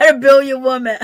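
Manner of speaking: cracking up mid-line; words swallowed by a laugh. Real, not acted. Laughing at the news clip.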